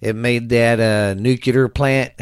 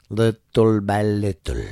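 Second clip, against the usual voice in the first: slow, weighted repeat; slow emphatic repeat; slower than usual. Acted. Host warning listeners, slow and emphatic. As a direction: drag each word to drive it home.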